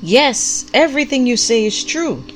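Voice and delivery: high, loud cry of agreement; vigorous call-out. A narrator's reading. Prophet answers the pastor from the congregation, calling out vigorously. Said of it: "called out with equal vigor".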